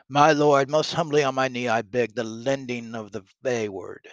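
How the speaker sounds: lightly declaimed plea, strong on the opening; humble petitioning nobleman. Acted. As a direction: beg formally as a kneeling subject. Reads York kneeling before the king.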